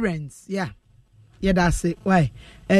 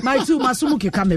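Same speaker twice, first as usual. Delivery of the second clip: laughing while talking; 3 semitones higher, faster than usual. Real, not acted. Host laughing after caller.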